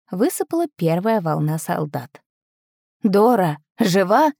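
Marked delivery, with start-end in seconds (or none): 3.0-4.3 called out, a bit louder; shouting soldier. Acted. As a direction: call out to see if she's alive. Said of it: "закричал один".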